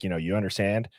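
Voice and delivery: low, softened coach intensity; weird, intense voice. Retold or imitated. Football coach coaching a player up, weird and intense. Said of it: "weird, intense voice".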